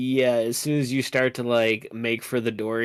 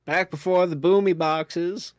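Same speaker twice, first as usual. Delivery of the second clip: put-on old grandpa voice; 5 semitones higher than usual. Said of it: "Not the grandpa boy".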